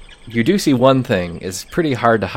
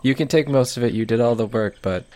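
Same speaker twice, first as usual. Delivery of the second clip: expectant elf. Acted. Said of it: "almost kind of expectantly".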